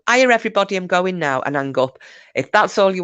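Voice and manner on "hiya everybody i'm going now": high, louder hello easing into a quick goodbye; lightly mimicked breezy sign-off; acted hello-goodbye. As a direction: demonstrate a comically brief greeting. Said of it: "And you just go".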